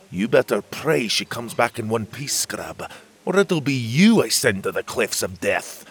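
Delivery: a hint of menace in the fairy voice; captain threatening the scrub; mild threatening fairy. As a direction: warn him off, half-serious.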